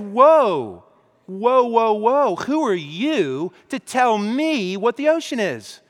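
loud, drawn-out whoa, offended and slow; defensive indignation. Acted. Friend on the hike, defending that the woods are the ocean, indignant and slow. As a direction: hold up a hand and take offense at being questioned.

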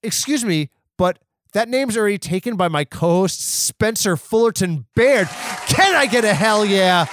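high, loud crowd-pumping call; rally the crowd like an MC; hype man shout. Acted. Hyping up the crowd for his co-host.

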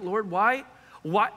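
crying out. Retold or imitated. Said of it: "I'm like".

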